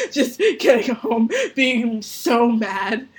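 words broken up by laughter, slowed on so mad; laughing through it. Real, not acted. Laughing as she tells the podcast co-host how mad she got. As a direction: laugh while telling how mad you were. Laughing while recalling her anger.

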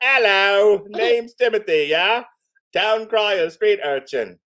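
high, loud put-on Cockney; Cockney accent. Reader voicing street urchin Timothy, perky Cockney accent. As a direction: pipe up as a hammed-up Cockney urchin. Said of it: "That's my Cockney accent".

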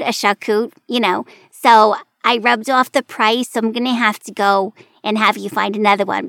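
imitating a Staten Island cashier's accent, lightly; a light take on a chatty Staten Island cashier. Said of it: "internalizing this accent".

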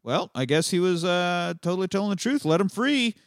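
Australian guards swallowing the lie, mock naive; mock gullible guard. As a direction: play the dupe with a sing-song lilt. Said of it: "And they're like".

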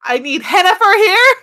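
high, loud mock Oklahoma farmer accent; put-on country twang. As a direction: plead in a hammed-up country accent. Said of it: "put on your best country accent".

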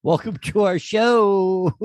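high, slow sing-song show welcome; show host voice. Acted. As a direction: stretch it out like a cheesy host. Show opening greeting.

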